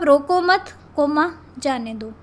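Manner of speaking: "रोको मत" together, saying the comma aloud, then "जाने दो"; comma after मत. Shown as a demonstration. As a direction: dictate it with the break after "मत". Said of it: "और एक लिख सकते हो आप".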